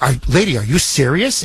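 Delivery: ordinary talk, nothing marked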